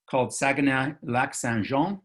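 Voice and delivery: Quebec place name in a French accent. Shown as a demonstration. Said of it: "I hope you all like my French accent".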